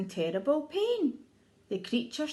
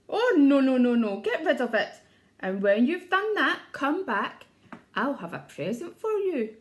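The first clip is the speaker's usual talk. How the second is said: loud crocodile, no no no; emphatic refusal; 6 dB louder than usual. Acted. Crocodile refusing his bad tooth from the mouse, loud. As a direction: push the tooth away loudly.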